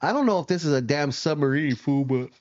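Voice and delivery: talking through a yawn. Real, not acted. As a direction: stretch the words out with a yawn. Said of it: "my apologies for yawning".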